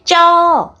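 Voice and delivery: "쩌"를 높고 세게 한 음절로; 울다가 튀어나온 아이의 "쩌" 흉내; 아이 첫소리 흉내. Retold or imitated. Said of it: "라는 소리를 내기". (높고 세게 "쩌" 하는 아이 흉내)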